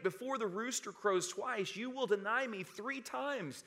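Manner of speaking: high-pitched, emphatic prophecy; solemn warning. Acted. Jesus's warning, preached aloud.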